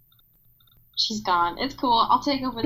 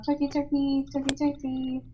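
high swooping warbled turkey call; turkey impression; 4 semitones higher, 3 dB quieter than usual. Podcaster announces she is a turkey, turkey impression. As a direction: warble like a turkey, then chant the word high. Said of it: "this time I'm a turkey".

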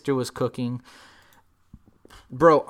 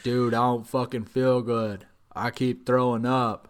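queasy groaning; 3 semitones lower than usual. Retold or imitated. Sick Corey voiced in story.

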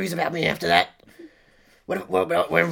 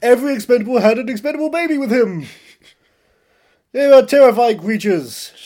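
loud, raised, hammed-up bellow; booming character voice; 6 semitones higher, 7 dB louder than usual. Guest raving about action stars, booming. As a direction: boom out each line.

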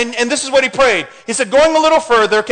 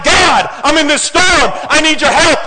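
crying out; 4 semitones higher, 3 dB louder than usual. Acted. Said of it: "You cry out and you're like".

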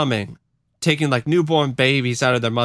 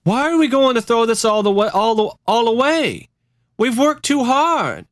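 Christine; 10 semitones higher than usual. Acted. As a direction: plead against throwing it all away. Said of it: "a recorded exchange between Christine and Jim Jones".

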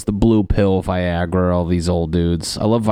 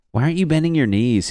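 puzzled wife; 7 semitones higher, much faster than usual. Retold or imitated. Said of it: "This guy's just like".

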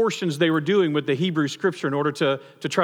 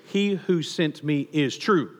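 savoring the phrase; 2 semitones lower, slower than usual. Shown as a demonstration. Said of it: "I love this phrase".

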